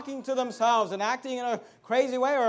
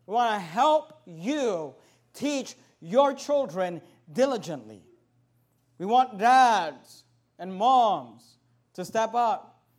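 earnest appeal; 3 semitones lower than usual. Acted. Slow quiet closing appeal.

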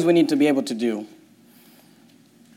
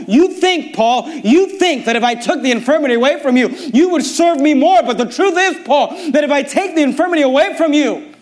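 voice of God; 10 semitones higher, 4 dB louder than usual. Acted. Preacher voicing God to Paul.

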